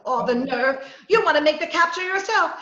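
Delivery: indignant outburst. Acted. Reporter outraged at detective.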